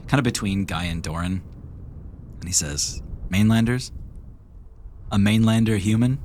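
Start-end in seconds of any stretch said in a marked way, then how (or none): 3.3-6.2 lightly voiced sneering tabaxi; mocking cat-folk voice. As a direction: scoff at the mainlanders, laughing.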